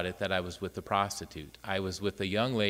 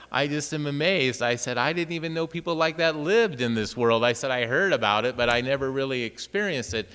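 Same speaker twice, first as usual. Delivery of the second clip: raised, louder, wide-eyed astonishment; amazed; 4 semitones higher, 5 dB louder than usual. Retold or imitated. Priest telling the friar how amazed he was by Hazel's stories, raised and louder. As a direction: gush with disbelief at her stories.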